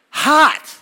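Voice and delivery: very high, loud mimicked yelp; shocked toddler. A toddler's feet touch asphalt, imitated yelp. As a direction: cry out like a child on burning ground.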